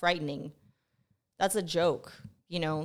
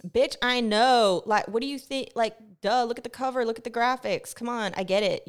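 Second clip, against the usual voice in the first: higher, loud-starting mock outburst at a teacher; exasperated retort; 5 semitones higher, 5 dB louder than usual. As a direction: act out an indignant "duh" comeback.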